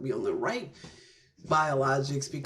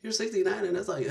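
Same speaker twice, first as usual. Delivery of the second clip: surprised doctor; 7 semitones higher than usual. Retold or imitated. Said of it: "They're like".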